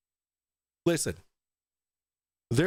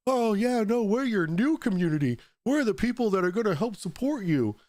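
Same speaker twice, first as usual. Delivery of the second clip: higher, eager mock fan voice; 5 semitones higher than usual. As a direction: gush like a fawning follower. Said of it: "And people are like".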